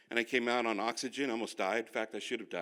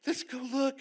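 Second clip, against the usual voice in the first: imitating wife; slower than usual. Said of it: "she's like".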